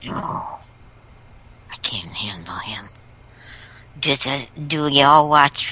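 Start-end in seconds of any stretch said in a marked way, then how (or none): 0.0-2.9 unvoiced whisper of dismay. Real, not acted. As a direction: breathe it out, fed up. Dreading a Democrat pundit.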